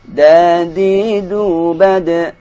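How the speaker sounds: loud, slow syllable drill; teacher modelling dal syllables; slow recitation drill. Shown as a demonstration. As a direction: chant each syllable clearly and slowly. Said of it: "drill syllables slowly".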